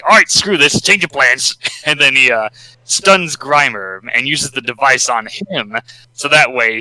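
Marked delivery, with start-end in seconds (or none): 0.0-1.6 high, louder sudden turn; lightly voiced treacherous henchman; scheming villain. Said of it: "So he's like".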